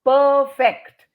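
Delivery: "perfect" as PER-FECT, both stressed; loud, equal halves in "perfect"; Indian mispronunciation. Retold or imitated. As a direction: imitate the even-stressed "perfect". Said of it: "chronic in India".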